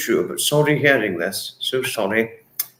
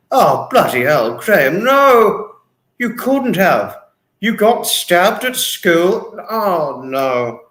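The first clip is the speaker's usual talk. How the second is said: slow, higher, stretched-out disbelief; shocked; 4 semitones higher, 4 dB louder, slower than usual. Real, not acted. Host reacting to a viewer's stabbing story, slow and shocked. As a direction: gasp out the horror slowly.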